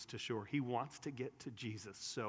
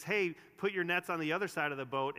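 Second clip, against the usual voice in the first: mildly raised, calling-out voice; retold shout, only a little louder; mock yell; 4 semitones higher, 5 dB louder than usual. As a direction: call it out lightly, as if to people offshore. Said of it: "he yells out and he says".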